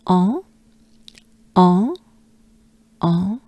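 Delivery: "en" as open nasal French vowel, rising. Shown as a demonstration. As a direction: model the nasal "en" in isolation. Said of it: "We're looking for en".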